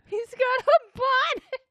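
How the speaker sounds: squeaky high shout; high excited squeal. Real, not acted. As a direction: squeal it loudly. Repeats in squeal.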